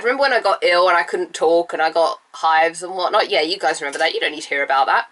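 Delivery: stuffy nose, raspy throat from a cold; nasal cold voice. Real, not acted. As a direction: talk through a blocked, nasal nose. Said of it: "sorry for the slightly nasally voice".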